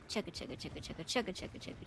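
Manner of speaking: chugging toy train voice. Pretend. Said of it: "if I really wanna build it up".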